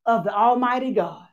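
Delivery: impassioned preacher voice; preaching. Acted. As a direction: preach it with rising fervor. Preaching a sermon.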